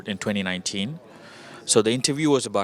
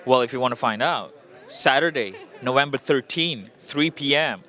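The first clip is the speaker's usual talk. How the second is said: punchy movie-promo announcement, each detail set apart; teaser pitch; 2 semitones higher than usual. Real, not acted. Filmmaker plugging his screening to the interviewer, teaser pitch.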